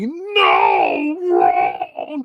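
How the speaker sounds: low, loud monster growl; Freddy's rejection. Retold or imitated. Freddy cutting the parachute, loud low growling no. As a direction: snarl it down at him like a demon. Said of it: "He's like".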